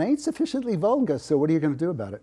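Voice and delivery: fast, high tough Brooklyn accent. Shown as a demonstration. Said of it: "I can talk like I'm from Brooklyn".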